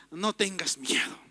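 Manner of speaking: hushed, low and gentle; calm a frightened soul; soft reassuring angel. Retold or imitated. Ángel calms frightened people. (el ángel tranquiliza a los asustados, con voz suave)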